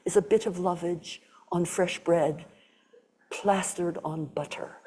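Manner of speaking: put-on a light English accent, slowing and laughing at the end. Teacher quoting her root teacher in a light English accent. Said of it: "in his inimitable, um, English accent".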